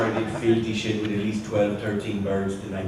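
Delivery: cheeky Irish brogue; Irish accent. Shown as a demonstration. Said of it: "say something in your Irish accent".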